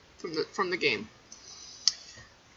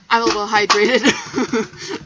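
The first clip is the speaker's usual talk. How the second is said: silly; 8 dB louder, slower than usual. Real, not acted. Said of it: "I'm feeling silly right now".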